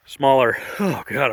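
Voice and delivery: breathless, still recovering; winded voice mid-sentence; out of breath. Real, not acted. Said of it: "I'm out of breath".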